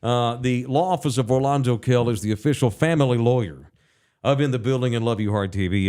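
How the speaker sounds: sponsor read in a steady announcer voice; host reading the family lawyer sponsor spot. Acted. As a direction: read it like a radio ad.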